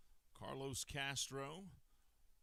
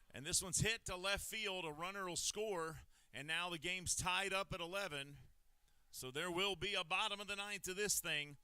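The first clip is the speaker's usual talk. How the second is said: excited call; 3 semitones higher than usual. Real, not acted. Announcer calling the game-tying hit to listeners, excited. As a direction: ride the rising excitement of the big hit.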